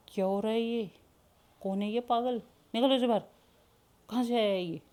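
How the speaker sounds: high, loud angry governess; angry scolding. Acted. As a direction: scold the intruder, rising to a shout on the third line. Strict governess scolds intruder.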